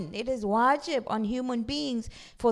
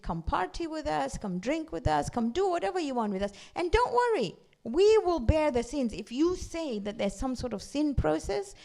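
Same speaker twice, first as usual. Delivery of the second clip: tempting peers; 4 semitones higher than usual. Retold or imitated. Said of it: "what they did was there, there was this peer pressure".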